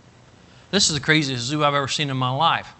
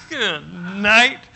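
mock amazement; 6 semitones higher than usual. Reacting to shown stab wounds.

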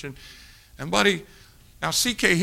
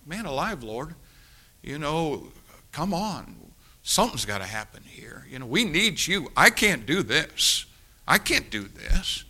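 desperate pleading prayer. Retold or imitated.

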